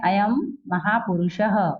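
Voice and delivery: slow अयम closed on a held "m", महापुरुषः ending in "ha"; anusvara as "m". Shown as a demonstration. Teacher explaining the last nasal to pupils, slow clear "m". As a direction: hum the last sound of अयम, then महापुरुषः with echoed "ha". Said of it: "म उच्चारण कर रहे हैं".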